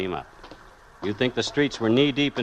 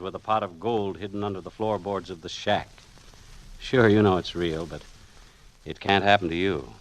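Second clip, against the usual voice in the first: brooding first-person narrator, looking back; noir story narration. A narrator's reading. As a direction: tell it like a hard-boiled radio mystery.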